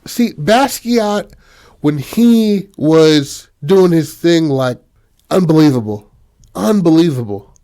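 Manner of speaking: high, slow, emphatic raving; gushing art fan. Retold or imitated. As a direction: imitate a guy gushing over an artist. Suitor raves about black artist.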